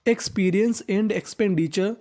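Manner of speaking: each word spaced and drawn out; teacher reading a sentence aloud very slowly; very slow model reading. Shown as a demonstration. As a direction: read it slowly so pupils follow. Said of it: "reading the sentence slowly".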